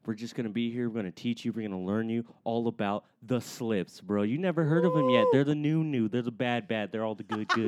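slick salesman hype; mlm recruiter pitch. Pretend. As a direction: recruit them to your crew. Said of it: "give me a pitch on slippers".

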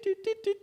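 high, soft beeping "tit, tit, tit"; imitated keypad beeps. Student dialling in, mimicking keypad beeps high and soft. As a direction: tap out beeps on a phone keypad. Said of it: "all these tit".

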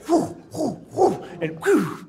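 mock whoop. Scotty whooping over the bird.

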